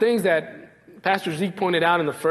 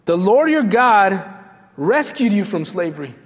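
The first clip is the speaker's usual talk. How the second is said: emphatic proclamation; 3 dB louder than usual. Acted. Preacher thundering the divine name to the congregation. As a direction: proclaim it to the back row. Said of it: "phrase repeated".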